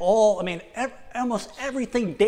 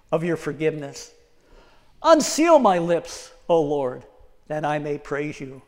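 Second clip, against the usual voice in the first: scripture reading; 3 dB louder than usual. Acted. Preacher reads Psalm 51 to the church in earnest reading. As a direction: read the prayer as if praying it.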